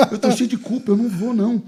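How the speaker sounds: loud, high comic refusal; retold panicked protest. Pastor tells himself he is too guilty to go, comically panicked. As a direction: protest loudly, high-pitched, hamming up the guilt. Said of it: "eu falei pra mim mesmo".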